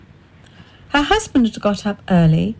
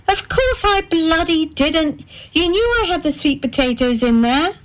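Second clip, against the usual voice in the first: a hint of an offended wife; indignant retort; 9 semitones higher than usual. A narrator's reading. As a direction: bite back at him, pitched high. Wife snaps at her husband.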